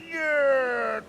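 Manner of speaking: high, lightly voiced Canadian drawl; Canadian staff member answering guests, Canadian accent; staff's Canadian accent. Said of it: "all the staff are like".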